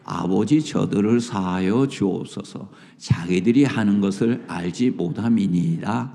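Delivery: low, steady congregational reading; scripture reading. Acted. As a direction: read the verse aloud together. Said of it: "예수께서 이르시되".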